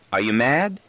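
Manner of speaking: put-on a touch of unease in a child's question; uneasy. Son checking whether his father is angry, mildly uneasy. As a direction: ask slightly warily. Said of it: "he inquires uneasily".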